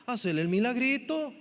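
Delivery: ruego imitado, algo agudo; discípulos suplicantes. Retold or imitated. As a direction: imitar a quien pide un favorcito. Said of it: "se volvieron y le dijeron". (discípulos que suplican)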